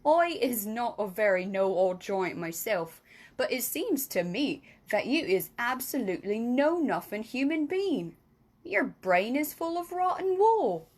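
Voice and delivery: lightly voiced friendly giant, scolding; a hint of a gruff giant; friendly giant scoffing at Sophie; BFG voice. BFG speaks at length.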